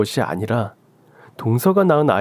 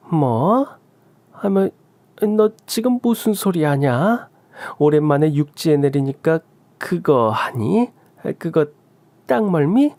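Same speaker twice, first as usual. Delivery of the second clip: higher, rattled scolding with nervous laughs; flustered mother-in-law; 5 semitones higher than usual. Acted. Mother-in-law flustered, scolding her son for his bombshell, higher. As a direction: cover up the panic by scolding.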